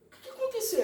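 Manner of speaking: high-pitched acted-out question; mock questioning father. Voices suspicious father questioning son. (imitando o pai questionando, voz aguda)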